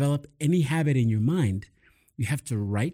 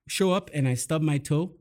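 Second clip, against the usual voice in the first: normal talking voice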